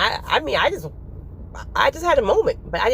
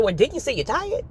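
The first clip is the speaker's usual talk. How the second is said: lightly voiced reply from God; just ask it back plainly; God's reply, plain; 4 semitones higher than usual. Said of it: "He's like".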